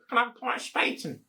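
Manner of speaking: high, fast put-on posh voice; posh pint order. To a barman, ordering in a mock-posh voice. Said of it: "you wouldn't go".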